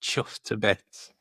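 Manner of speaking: slow and relishing; slowly savouring a favourite phrase; savoured slowly. Shown as a demonstration. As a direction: linger over chuffed to bits. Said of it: "One of my favourites".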